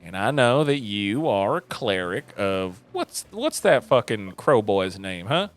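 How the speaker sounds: knowing mother. Acted. Mother brushing Arya's hair while questioning her, knowing. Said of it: "she just says".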